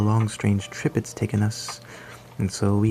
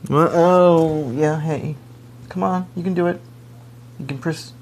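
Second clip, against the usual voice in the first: high, coaxing voice for a pet; 8 semitones higher, 4 dB louder than usual. Acted. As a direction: coax the little creature along, sweetly high. Coaxing creature Blobby.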